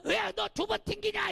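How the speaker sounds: high mock yell of an angry child; kid's accusing shout. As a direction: accuse the other kid of cheating. Kids fighting over drawn land. (반칙했다고 따지는 아이 흉내, 높은 소리)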